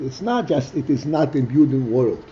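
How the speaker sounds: deliberate weight on each "not"; emphatic stress. Real, not acted. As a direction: mark "not" firmly, both times. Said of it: "and we're emphasizing it".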